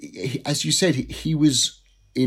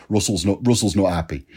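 lightly imitated Manchester accent; mock Mancunian agent. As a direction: put on a bit of Manchester, dropping the H. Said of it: "that's my Manchester accent".

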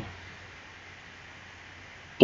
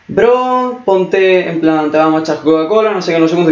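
mock taunting kids; 5 semitones higher than usual. Kids taunting him, retold.

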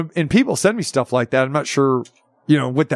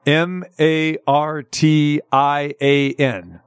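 spelled out slowly; much slower than usual. Shown as a demonstration. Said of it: "You wanna try again?".

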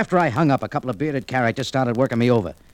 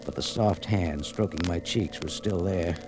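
hushed story narration; 2 semitones lower than usual. A narrator's reading. Narrator describes waking up.

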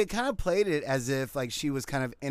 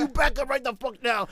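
raised, high-pitched mock yell; screaming argument; 8 semitones higher than usual. Other driver refusing to yield, retold as screaming. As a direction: act out a heated shouting match. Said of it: "just screaming at each other".

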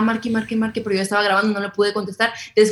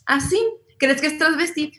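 imitating grandma; 6 semitones higher than usual. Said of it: "una vez le puso a una persona".

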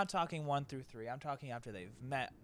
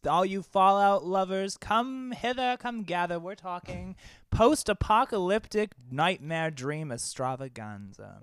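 loud, high cackling witch summons; 4 semitones higher, 8 dB louder than usual. Pretend. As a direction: beckon the crowd like a witch. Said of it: "Zach is in witch mode".

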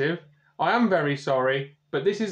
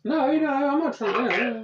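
laughing denial; 9 semitones higher than usual. Real, not acted. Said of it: "keep trying to get me into shit".

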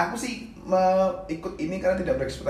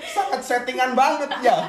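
winded from laughing; breathless giggly aftermath; after laughing hard; 9 semitones higher, 6 dB louder, slower than usual. Real, not acted. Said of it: "Capek, capek ketawa".

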